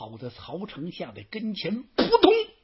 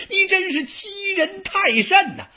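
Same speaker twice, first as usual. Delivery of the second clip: far higher, choked half-sob of fury; enraged cry; 13 semitones higher, 5 dB louder than usual. Acted. Xu Chu cries out, outraged by Xu You's taunt. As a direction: wail it out as if rage is breaking the voice. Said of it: "把许褚气的".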